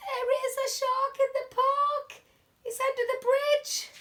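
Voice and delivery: high, excited gasp and cry; gasping surprise. Acted. Teacher showing the children, gasping in surprise. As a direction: point it out with a startled gasp.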